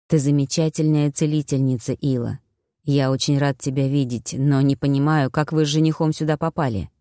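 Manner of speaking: lightly voiced wounded brother, low and subdued; injured brother, grateful. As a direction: speak low, with understated gratitude.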